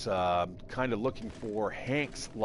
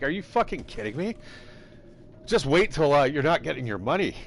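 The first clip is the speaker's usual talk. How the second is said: higher and louder, indignant yelling back; angry retort; 5 semitones higher, 3 dB louder than usual. Retold or imitated. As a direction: snap back at the roommate in disbelief. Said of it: "I'm like".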